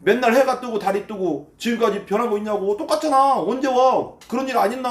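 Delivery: mocking scoffer's rant; sneering. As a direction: jeer at them, pitch climbing as it goes. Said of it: "계속 비아냥거리는 거예요".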